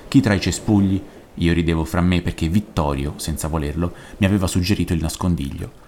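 measured, even reading aloud; composed short-story reading; story narration. A narrator's reading. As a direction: narrate a suspense tale with steady control.

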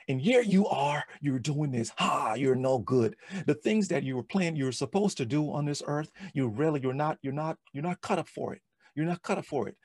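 acted, relentless berating; beating down. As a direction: act out the voice that tears you down. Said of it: "just beating me in the dirt".

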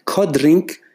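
high rising disbelief at the offer; incredulous. Real, not acted. Photographer mocking a client's offer, incredulous rise. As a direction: repeat it high, can't believe it. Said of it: "in my head, I'm thinking".

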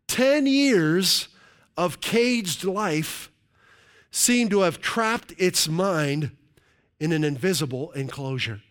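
deliberate, drawn-out dramatic reading; story read aloud. Acted. Preacher reads about the caged eagle, weighty storytelling.

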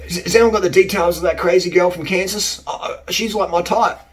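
high, hammed-up dopey admirer; mock smitten guy. Guy watching Jerry Springer, mock smitten and high. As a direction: play a guy smitten with a crazy girl. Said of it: "guys ... going".

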